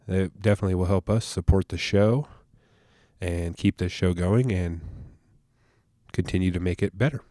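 stuffy nose from allergies; nasal allergy voice. Real, not acted. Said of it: "excuse my nasally voice I got going on".

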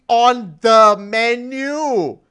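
slow, high and loud through laughter; laughing. Real, not acted. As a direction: drag it out, cracking up. Laughing at absurd news.

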